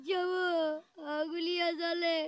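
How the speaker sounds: crying. Acted. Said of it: "তুমি কান্দছো কেন সে এদিকে?".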